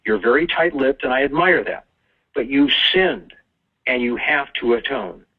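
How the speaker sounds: mildly exasperated priest, pitch mostly up; lightly acted priest giving a firm telling-off; frustrated priest. Priest sends Joey back to the pew, mildly frustrated. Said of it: "the priest finally sighs in frustration and says".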